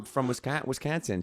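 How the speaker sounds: badly faked Wisconsin accent on "Wisconsin". Shown as a demonstration. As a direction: say the state name in a Wisconsin accent. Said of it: "Do that again".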